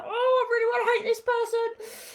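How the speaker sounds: loud, high mock outburst of hate; acted-out hatred. Healer voicing someone tempted to hate, exaggerated high outburst. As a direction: play up the urge to hate, pitched high.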